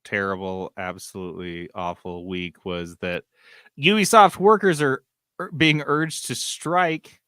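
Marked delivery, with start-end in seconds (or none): 3.8-7.2 dramatic announcement. Acted. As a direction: announce it like breaking news. Dramatic news reveal.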